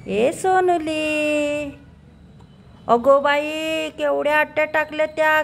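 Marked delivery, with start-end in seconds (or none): 0.1-3.9 slow cooing. Real, not acted. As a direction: stretch the name lovingly. Cooing to crying baby.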